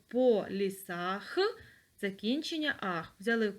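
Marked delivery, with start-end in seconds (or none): 0.1-1.4 "По лісах" drawn out slowly; slow dictation. Shown as a demonstration. Teacher repeats "По лісах" slowly for notes. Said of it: "Записуємо".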